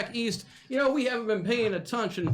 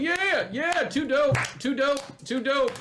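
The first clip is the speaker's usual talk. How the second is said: cheering crowd; 3 semitones higher, slower than usual. Acted. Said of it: "People start applauding".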